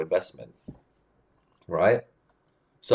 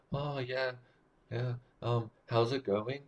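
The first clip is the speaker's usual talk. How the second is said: very soft, higher, questioning mumble; timid, too quiet; 6 semitones higher, 10 dB quieter than usual. Shown as a demonstration. Coach showing a terrible unconfident greeting, quiet and uptalking. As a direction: shrink the voice, lifting each phrase into a question. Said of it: "you definitely wanna be louder than most people".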